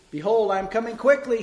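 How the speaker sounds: loud, high shouted verse. A narrator's reading. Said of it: "he shouted".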